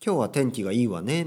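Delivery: a hint of a woman's phrasing, lilting 「わね」; lightly feminine speech. Shown as a demonstration. Teacher showing women's sentence ending, lightly feminine. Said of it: "女性だと".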